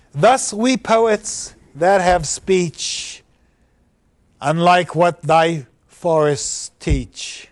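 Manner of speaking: very slow, deliberate reading of verse; poem recitation. Acted. Teacher reads the poets' couplet, slow recitation. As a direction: dwell on every word of the couplet.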